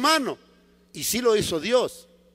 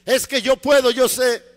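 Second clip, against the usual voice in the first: higher, insistent self-defence; Paul protesting; 3 semitones higher, 4 dB louder than usual. Acted. Paul insists to God that he is able, protesting. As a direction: push back eagerly.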